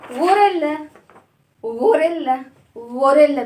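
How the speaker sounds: غوريلا called out loudly for the class; teacher calling out غوريلا to class; clear repeat. Shown as a demonstration. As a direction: call out غوريلا for kids to repeat. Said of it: "ها،".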